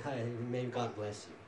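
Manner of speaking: mock casual blessing. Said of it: "the lip service saying".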